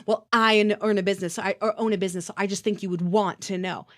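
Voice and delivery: stammering mock of a smug customer. Mocking the pompous customer with a stumbling, smug voice. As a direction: parrot the complainer's stumbling boast. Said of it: "just so that you can".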